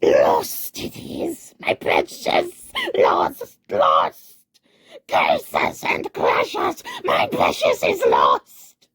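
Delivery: loud, high anguished creature shrieks; wailing. Acted. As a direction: wail the loss in despair. Gollum wailing in despair.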